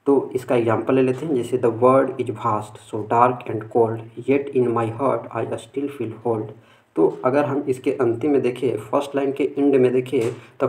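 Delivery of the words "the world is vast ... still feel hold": slow, measured reading of a poem. Shown as a demonstration. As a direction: read each line slowly like a recited verse. Reads example poem aloud.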